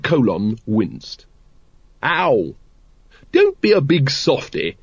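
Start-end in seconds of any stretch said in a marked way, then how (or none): 2.0-2.6 short mild cry of pain; acted pained ow. A narrator's reading. Sergeant winces under bandaging. 3.3-4.8 high, cheerful hearty lady. A narrator's reading. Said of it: "said Lady Ramkin cheerfully".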